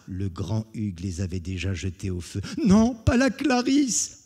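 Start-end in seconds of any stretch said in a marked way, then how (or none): 2.6-4.2 high, loud and slow lament; heartbroken plea. Acted. Jean to Hugues, slow high lament for Clarisse. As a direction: draw out the despair.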